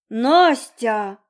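mother aghast at her daughter; gasping. A narrator's reading. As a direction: gasp out her name in shock. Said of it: "ахнула мама".

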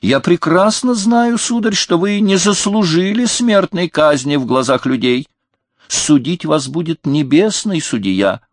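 a king mocking the upstart in rage; furious outcry. A narrator's reading. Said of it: "вскричал Людовик".

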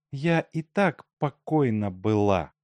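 last word была pressed hard, the rest held back; stress on была. A narrator's reading. Daughter answers the suitor, hard stress on была. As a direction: lean on была. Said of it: "Ганя сделала сильное ударение на последнем слове".

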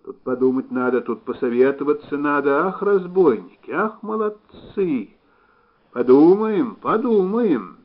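high, loud admiring chant to oneself; muttered admiration. A narrator's reading. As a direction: marvel aloud while hurrying off. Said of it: "приговаривая на ходу".

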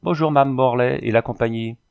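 a breezy, loud hello to the room; familiar hail. Acted. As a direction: call out cheerfully as he walks in. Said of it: "en s'écriant familièrement". (salut lancé fort et familier)

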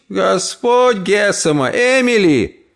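put-on high, slow old-woman exclamation; shocked cry. Aunt cries out at Emily, shocked. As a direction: gasp out her name.

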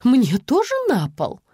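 high, lightly voiced pampered lady; spoiled society lady. Mother asks the police, lightly voiced as a spoiled lady. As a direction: ask it like a pampered socialite. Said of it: "тоном избалованной барышни из высшего света".

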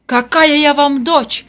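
loud, slow outraged question; indignant cry. A narrator's reading. Vera denies being Rosa's daughter, indignant cry. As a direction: reject the lie. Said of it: "крикнула Вера".

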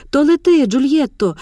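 high, loud, spirited call; feisty exclamation. A narrator's reading. Shop assistant cheering Mar'yana off, feisty loud call. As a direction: cheer her off with a feisty shout. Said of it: "задьористо вигукнула жінка".

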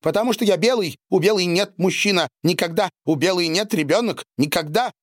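sobbing. A narrator's reading. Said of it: "И новая волна рыдания".

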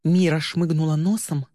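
plain reading voice

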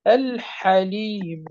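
الحليم very slowly, lam sounded clearly before the ح; clear lam demo. Shown as a demonstration. Teacher giving a second clear-lam example, very slow. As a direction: stretch out الحليم, the lam fully heard. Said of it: "أو نقول".

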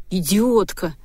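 muted, angry hiss through the teeth; understated hissed anger. A narrator's reading. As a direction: spit the insult out through clenched teeth. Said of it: "сквозь зубы прошипел Зорин".

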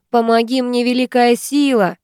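firm dictated words to repeat; commanding. Acted. Ingrid dictating the prayer to her friend, commanding. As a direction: lay down the exact words firmly. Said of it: "велит та".

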